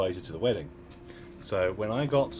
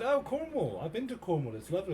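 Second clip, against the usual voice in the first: retold enthusiasm; 8 semitones higher than usual. Retold friendly wedding small talk.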